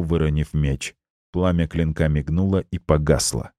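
usual speaking voice

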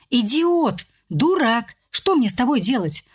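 exasperated moan. Acted. Polya moaning at Gleb over his stupid trick, mild groan. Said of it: "застонала я".

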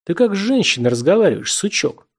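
menacing hoarse demand. A narrator's reading. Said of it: "кто-то хрипло и грозно спросил".

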